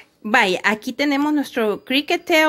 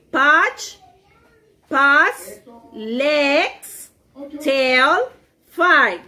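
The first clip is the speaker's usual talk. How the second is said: teacher drilling vocabulary; much slower than usual. Shown as a demonstration. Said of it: "Let's repeat".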